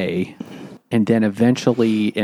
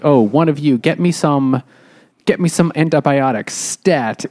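louder, higher hammed-up nurse command; mock bossy demand; 4 semitones higher, 3 dB louder than usual. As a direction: order the room around like a war nurse. Claire demanding antibiotics.

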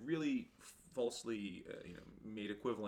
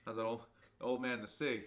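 mock gang voice; 4 dB louder than usual. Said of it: "the Bloods, like".

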